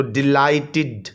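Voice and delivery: डिलाइटेड slowly, broken before a clear "tid"; ending pronounced id. Shown as a demonstration. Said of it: "ये इड पे ख़त्म होता है". (डिलाइटेड धीरे, आख़िर में साफ़ "इड")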